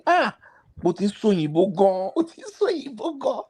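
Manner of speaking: high-pitched imitated exclamation of wonder; mock amazement. Retelling how barracks folk admired the newcomer's English, in mock amazement.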